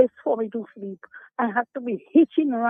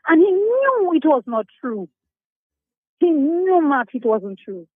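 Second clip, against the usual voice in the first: indignant; 5 semitones higher than usual. Real, not acted. Caller's angry complaint.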